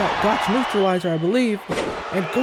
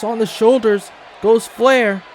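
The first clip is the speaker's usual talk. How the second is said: loud, drawn-out call of the lift; excited shout; 5 dB louder, slower than usual. Real, not acted. Commentator calling the lift to viewers, excited shout. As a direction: let the crowd feel the lift. Big lift move called live.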